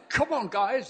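high-pitched mock rallying cry, rough South African attempt; Ann Bellingham. Preacher imitating a much-loved colleague for the congregation, high rousing call. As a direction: imitate a preacher who roars to cheer people up. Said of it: "I can't do the South African accent well enough".

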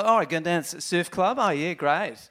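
imitated Australian soap chatter; mock Aussie accent, lightly put on. Sending up Home and Away chat, mock Australian accent. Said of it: "if you watch Home and Away".

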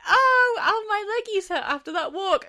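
high-pitched, pitiful little moan; mock whining.

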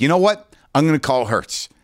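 mock defiant. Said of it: "That was the lamest, most impotent thing".

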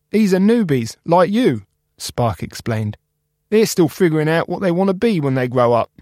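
high, upbeat reassuring friend; Spark cheerful. Acted. Spark cheering up Cap about the recycling machine. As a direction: promise him a fresh start.

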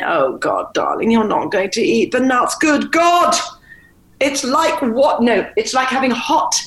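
the appalled mother sneering over the nuts; scornful mother. Retold or imitated. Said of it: "I go".

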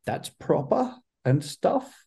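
put-on high, slow, childlike wonder; a small boy gaping up at a big stage; little kid Jeff. Jeff as a wide-eyed kid seeing the stage, high and slow. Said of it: "little kid Jeff, like".

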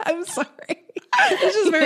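fast, laughing words. Real, not acted. Co-host cracking up at Rob's panic, fast and laughing. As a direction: giggle through it quickly.

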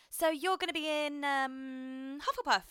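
lightly voiced wardrobe lady; a hint of a bored costume lady; wardrobe woman voice. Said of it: "the woman was like".

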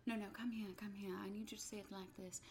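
soft coaching director. Retold or imitated. Director coaxing actor softly, quiet and patient. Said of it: "Ray Fiennes goes".

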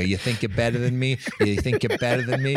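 imitating Boston siblings' accent. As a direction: taunt lightly in put-on Boston speech. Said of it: "talking like a Boston person".

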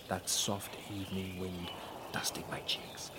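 soft, breathy savouring; hushed and dreamy. Acted. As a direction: murmur as if lost in the moment. Savouring the breeze softly.

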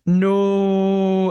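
a sudden high, loud "No"; shouted-out written no; emphatic no. Retold or imitated. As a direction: blurt it out like capital letters on the page. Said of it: "in big capital letters".

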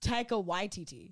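"Waititi" said with the first syllable emphasised; stress on WAI. Shown as a demonstration. Repeating the name until approved, stress on "Wai" in "Waititi". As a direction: put the weight on "Wai" in "Waititi". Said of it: "the emphasis is on Y".

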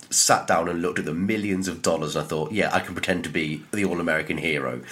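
lightly voiced self-important actor; a hint of a smug Hollywood star; mock actor interview. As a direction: send up a pompous actor answering. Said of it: "how did you get in the role".

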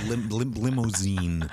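slow, careful American accent attempt; a stiff, effortful American accent; Pattinson's American accent. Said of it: "I gotta say this word a lot".

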